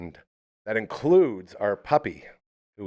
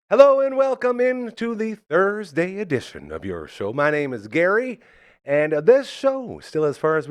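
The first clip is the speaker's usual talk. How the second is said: bright radio host welcome; show host intro; 8 semitones higher, 5 dB louder than usual. Acted.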